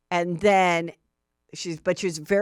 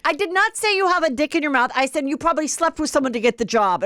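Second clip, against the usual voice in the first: mock indignant retort; 7 semitones higher, faster than usual. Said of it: "Uba's like".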